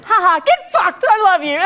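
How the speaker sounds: high, manic mock laugh into sweetness; manic retort. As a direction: blurt it high, acting unhinged. Acting out her unhinged reply.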